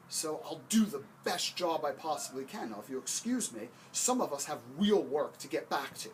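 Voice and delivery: exasperated sweaty labourer brushing someone off; annoyed worker. Acted. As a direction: snap back at the boss who interrupted. Annoyed worker snaps at overseer.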